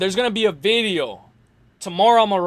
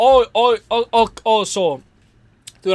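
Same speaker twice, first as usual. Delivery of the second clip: slow, heavy, repeated stammering on oh; 2 semitones higher, 3 dB louder than usual. Answering a request to call into a show, stuttering heavily. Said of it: "I'm stuttering like crazy".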